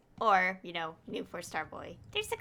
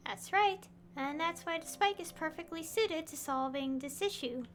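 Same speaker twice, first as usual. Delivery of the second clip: higher-pitched, measured character reading; game dialogue read-aloud; 6 semitones higher, 3 dB quieter than usual. Acted. Streamer voicing an expert explaining the spike, reading aloud.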